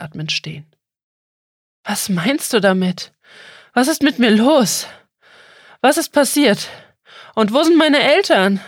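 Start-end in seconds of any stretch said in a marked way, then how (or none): 1.8-3.1 louder, urgent and unsettled; anxious question. Acted. Out-of-breath boy presses the turtle, anxious and urgent. 3.7-4.9 much higher and louder, frightened; the fear breaks through now; rising panic. Acted. Boy begs the turtle for answers, frightened and loud. 5.8-8.6 very high and loud, close to crying out; near-hysterical panic. Acted. Boy cries out for his parents to the turtle, high and frantic.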